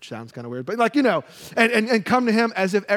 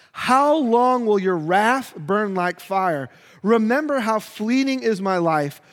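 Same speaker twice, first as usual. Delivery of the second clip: desperate lament read aloud; anguished plea; 3 dB louder than usual. Acted. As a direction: plead with God in anguish. Reading Psalm 89 lament.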